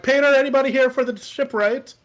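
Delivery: loud call across. Acted. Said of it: "I'm like".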